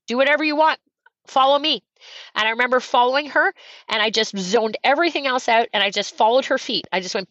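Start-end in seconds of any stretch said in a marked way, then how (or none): 0.1-1.8 higher, light imitation of a woman runner; runner offering to pace. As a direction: lightly voice her brisk go-ahead. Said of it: "she says".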